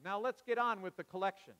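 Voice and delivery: shouted. Retold or imitated.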